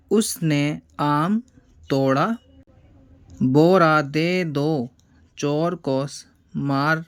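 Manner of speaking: word by word, slow and clear; slow lesson reading. Shown as a demonstration. Teacher reading practice sentences to pupils, slow and clear. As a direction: read each phrase for pupils to copy.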